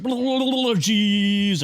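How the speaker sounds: high gabbled blah blah then a loud, high JESUS; mock rushed prayer. Mocking the priest at grandma's funeral, gabbled then loud. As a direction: mimic the Irish priest's mumbled prayer and booming Jesus. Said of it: "So it was just like".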